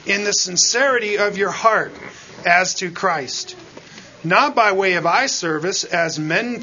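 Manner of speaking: measured, solemn reading of scripture; lightly heightened Bible reading. Acted. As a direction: read the verses out to the congregation. Reads scripture aloud.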